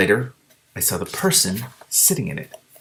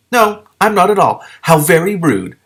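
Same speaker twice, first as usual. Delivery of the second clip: offended lizard; 9 semitones higher, 9 dB louder than usual. A narrator's reading.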